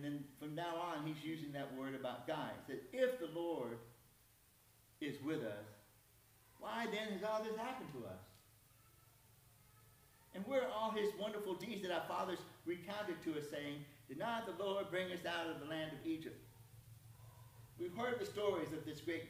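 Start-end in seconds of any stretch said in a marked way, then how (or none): 2.9-8.2 challenging question with some attitude; mildly sarcastic, pitch lifting into the complaint. Acted. Gideon talking back to the angel, sarcastic. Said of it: "I'm gonna put some sarcasm in this". 10.3-16.4 sarcastic. Acted. Gideon questioning the angel about God's deeds, sarcastic. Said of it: "I'm gonna put some sarcasm in this".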